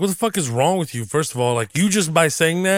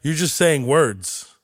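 a higher, hammed-up skeptic; mocking skeptic; 5 semitones higher, much slower than usual. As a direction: sneer it like a doubter. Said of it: "people will be like".

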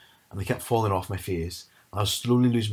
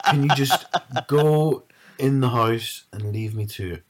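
exasperated plea; 3 semitones higher, 4 dB louder, slower than usual. Retold or imitated. Fed up with mum watching.

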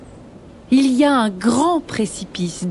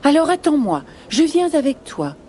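lightly voiced eager rabbit, higher pitch; second rabbit; 6 semitones higher than usual. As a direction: call after a friend, pitched up a little. Second rabbit joins the flight.

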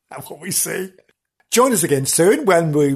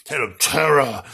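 vintage horror narrator; 3 semitones lower than usual. Shown as a demonstration. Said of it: "Yes, better".

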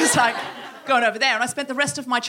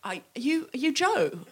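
hesitant recognition; 4 semitones higher, 4 dB quieter than usual. Acted. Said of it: "I looked at their face and I went".

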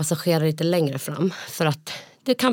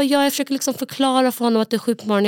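snippy woman; 7 semitones higher, faster than usual. Retold or imitated. Imitating the woman's retort.

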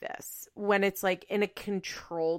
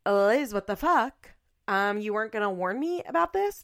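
shocked friend; 2 semitones higher, 4 dB louder than usual. Retold or imitated. Friend reacting to the show recommendation, mock-shocked and louder. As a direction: replay a friend's playful horror. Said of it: "she was like".

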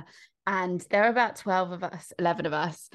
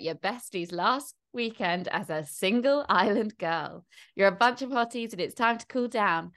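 reality show announcer. Acted. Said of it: "I can read you".

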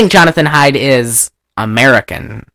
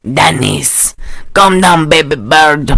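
lightly hammed Paraguayan accent; bad Paraguayan accent; slower than usual. Snake hunter calming Denise, in a badly faked Paraguayan accent. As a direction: imitate a poor Paraguayan accent. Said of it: "doing a bad Paraguayan accent".

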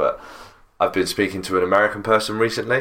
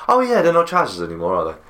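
high mock quote; 5 semitones higher, faster than usual. Mock quote of a film character.

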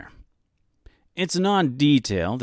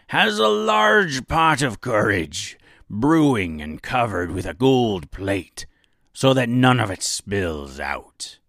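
put-on pirate accent. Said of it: "a bit of a pirate accent".

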